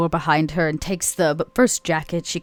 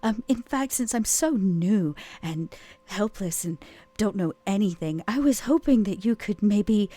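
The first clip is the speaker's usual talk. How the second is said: slow, a little higher, sweet, playing helpless and weak; mock helpless flirt; 4 semitones higher than usual. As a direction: flutter at him to get help with the locker. Vera plays helpless to flirt.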